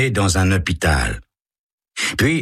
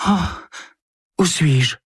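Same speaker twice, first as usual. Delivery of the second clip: put-on higher, feigned dazed girl; fake waking confusion; 11 semitones higher than usual. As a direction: pretend to just come to. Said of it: "dit Carole".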